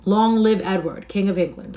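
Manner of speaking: stretched-out answering hurrah; chorus cheer. A narrator's reading. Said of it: "a chorus round about".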